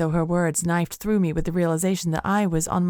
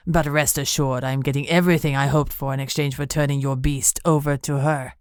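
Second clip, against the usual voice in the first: lower, cold gloating; lower, savoring the deal; smug villain; 3 semitones lower than usual. Acted. Benito gloating.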